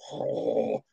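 long, low, soft "oh" of nausea; imitated sick groan. Queasy center with his hand in the dirt, imitated sick groan. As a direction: groan low like someone about to vomit. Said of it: "I hear Tunch go".

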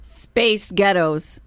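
slow, deliberate American accent; careful, drawn-out American delivery. Shown as a demonstration. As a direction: sound it out slowly in American. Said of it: "in an American accent".

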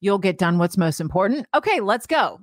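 mildly encouraging self-talk; changed positive tone. Acted. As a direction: reassure yourself with gentle conviction. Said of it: "let's change the tone of voice".

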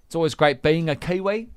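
"Kiwi" lifted at the end in Kiwi vowels; imitated New Zealand accent. Host copying the voice note, New Zealand accent. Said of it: "then it goes up at random moments".

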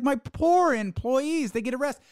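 high, self-pitying mock whine; sarcastic impression of a sobbing apology; mocking whiny imitation. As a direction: play the wounded victim, sarcastically. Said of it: "I'm going to cry and I'm gonna sob".

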